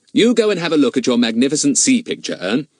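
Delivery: a hint of an eager schoolboy; Fatty, breezy boy. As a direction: pitch it up, send a friend off. Boy character speaking to a friend.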